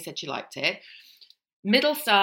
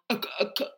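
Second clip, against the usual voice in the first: mock toddler retching; 3 semitones higher, faster than usual. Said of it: "like a three-year-old".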